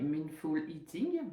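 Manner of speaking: slow, careful English accent on Mindful Eating. Real, not acted. Nutritionist jokingly names the term in her English accent, slow and careful. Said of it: "avec mon super bar-, accent anglais".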